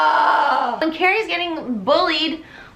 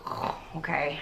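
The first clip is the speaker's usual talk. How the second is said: soft, low meek okay; meek small reply; 8 semitones lower, 12 dB quieter than usual. Retold or imitated. Carrie meekly gives in to her mom, soft. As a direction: answer timidly, cowed. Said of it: "And she's like".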